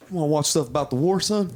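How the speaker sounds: a hint of a gruff dad offering war movies. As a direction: boyfriend doing dad mode, lightly mimicked. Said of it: "He's just like".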